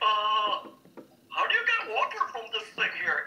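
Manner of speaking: sing-song, high, swooping, animated cartoon voice. Retelling the audition line that won the role: Ed voice. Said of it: "That's the voice!".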